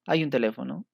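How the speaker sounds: "hay un teléfono" rising as a question; question intonation. Shown as a demonstration. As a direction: lift the end of "teléfono" to ask. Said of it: "como pregunta".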